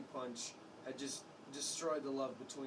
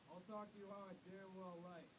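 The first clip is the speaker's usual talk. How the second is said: shouting; 6 semitones higher, 11 dB quieter than usual. A narrator's reading. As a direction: throw it back at him. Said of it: "And Father shouted".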